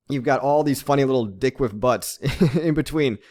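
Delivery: amused, breaking into a giggle near the end; trying not to laugh. Real, not acted. Host telling viewers about silly meme coin names, laughing. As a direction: say it while fighting back laughter. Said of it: "can't even say it without laughing".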